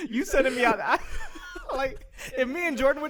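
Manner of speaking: high, loud mock disbelief; hammed-up scared objection; incredulous protest. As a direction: protest in comic alarm. Plays scared man protesting to partner.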